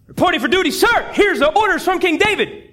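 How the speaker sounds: a hint of a dutiful young soldier; eager soldier. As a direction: snap to attention for your king. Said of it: "Uriah goes".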